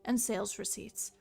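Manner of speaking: grand storybook reading; story narration. Acted. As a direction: narrate the history solemnly. Reading game lore aloud.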